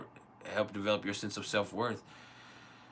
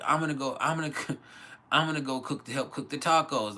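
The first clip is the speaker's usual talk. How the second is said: lightly voiced eager kid, pitched up; higher mock kid voice; imitating son; 5 semitones higher, 3 dB louder than usual. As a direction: imitate a child announcing plans. Voices his son offering to cook.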